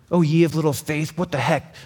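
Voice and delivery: mildly angry scripture reading; a touch of annoyed rebuke. Shown as a demonstration. Preacher reading Jesus' words as if angry, mildly angry. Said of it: "read this in an angry tone".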